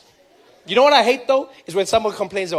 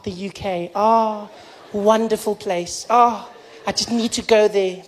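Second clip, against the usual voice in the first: dreamy longing; slower than usual. Retold or imitated. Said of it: "South Africa's like".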